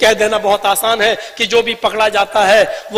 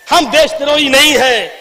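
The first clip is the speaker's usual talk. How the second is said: firm restatement in a contained voice; controlled, falling declaration; measured insistence; 5 semitones higher, 3 dB louder than usual. Real, not acted. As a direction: state the denial steadily, without shouting. Same denial repeated in lower register.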